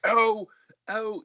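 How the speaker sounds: a light British fussing oh; mild, fussy British host sigh; British accent. Retold or imitated. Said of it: "he's British".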